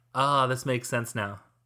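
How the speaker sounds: ordinary talk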